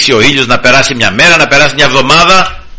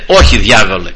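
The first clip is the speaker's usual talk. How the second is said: defiant refusal; 4 semitones higher than usual. Pretend. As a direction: refuse the devil outright. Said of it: "να αντισταθούμε στο σατανά και να πούμε". (αποφασιστική, δυνατή άρνηση προς τον διάβολο)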